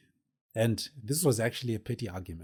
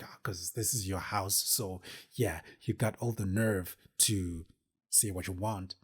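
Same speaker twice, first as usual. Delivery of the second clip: inner rage building. Retold or imitated. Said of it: "In my mind, I'm just like".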